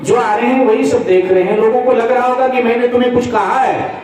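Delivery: embarrassed wife scolding. Acted. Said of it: "पत्नी को बुरा लगा".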